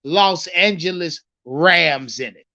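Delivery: slow, deliberate quoted question; measured retelling of a question; quoting the reporter. Retold or imitated. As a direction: spell out the reporter's question slowly. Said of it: "This is how they said it".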